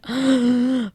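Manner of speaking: sharp mock-shocked intake of breath; offended gasp. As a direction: gasp as if just smacked. Reacting to being smacked.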